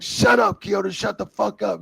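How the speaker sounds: high, loud burst easing off; retold angry shout. Wrestler shutting up the complaining referee, retold angry shout. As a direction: act out shouting someone down. Brock silences the referee, acted.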